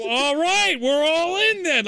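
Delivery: high, loud retold group agreement; rallying cheer. Teammate imitating everyone signing on, rallying. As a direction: call it out like the whole gang joining.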